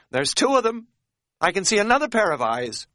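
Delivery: very high, loud alarm; hysterical, high-pitched report; panicked. A narrator's reading. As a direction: cry out the sighting in terror. Panicked sighting of second bear.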